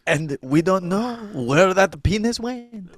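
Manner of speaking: slow mock French accent. Officer wonders about missing evidence in French accent. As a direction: puzzle it out in a put-on French accent. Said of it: "we do the French accent".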